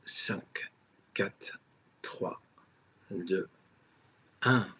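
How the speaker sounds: whispered count on a held breath; holding breath. Real, not acted. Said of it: "Je bloque la respiration".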